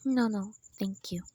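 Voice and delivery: barely manage the words; stunned, faint. Acted. Stunned after bad news.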